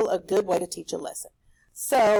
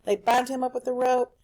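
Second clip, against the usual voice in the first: bind punched as the key word; They bind him up, with bind stressed; 3 semitones higher than usual. Shown as a demonstration. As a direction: lean on bind. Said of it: "Remember that power word, bind?".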